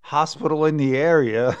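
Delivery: high, fast, half-laughing desperation; exasperated driver at the end of his rope; frantic lost caller. Retold or imitated. Lost driver calling the kid from a payphone, high and frantic.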